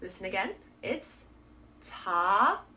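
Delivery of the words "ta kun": ta-kun split by a long silence; open, drawn-out ta, wait, then kun; ta-kun in two separate syllables, k only on the second; deliberate pause. Shown as a demonstration. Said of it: "an actual pause in between the two syllables".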